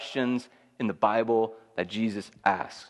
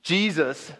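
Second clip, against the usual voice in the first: retold shout; 4 semitones higher than usual. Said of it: "he shouts out".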